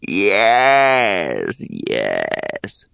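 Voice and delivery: yawning through words. Acted. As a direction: say it mid-yawn. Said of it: "said the hag, yawning".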